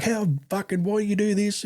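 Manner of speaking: high, exasperated mock demand; retold unleashing. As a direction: replay laying into someone. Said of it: "I was just unleashing".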